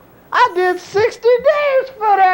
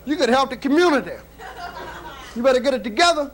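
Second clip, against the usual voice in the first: a lower, faster voice for the stern street elder; lecturing old wino; 4 semitones lower, 4 dB quieter, faster than usual. Acted. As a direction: scold him like an old-timer on the corner, rapid-fire.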